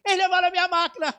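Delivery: bold declaration. Retold or imitated. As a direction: cry it out as if inspired. Repeating the declaration before the judge.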